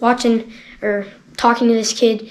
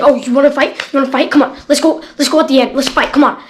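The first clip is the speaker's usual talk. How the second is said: mock taunt, louder and a bit higher, egging him on; imitating a challenge; 3 semitones higher, 4 dB louder, faster than usual. Teen bully daring the kid to fight, mock loud taunt. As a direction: throw it at him like a dare. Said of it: "he's like".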